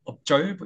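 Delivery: "observe" as "eop-jjeolb", with a tense Korean jj; tensed 쩔프 mistake. Shown as a demonstration. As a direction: say "observe" wrongly, with jj replacing z. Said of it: "이렇게 쩔프로 발음을".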